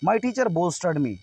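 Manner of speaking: very slow, careful sentence for students; teacher slowly reading out an example. Shown as a demonstration. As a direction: dictate each word slowly. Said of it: "bolster का use कैसे करते हैं".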